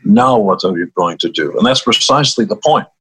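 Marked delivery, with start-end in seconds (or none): 0.0-1.6 lightly imitated Hungarian accent; mother's question with a Hungarian accent; a touch of thick Hungarian English. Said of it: "in her thick Hungarian accent".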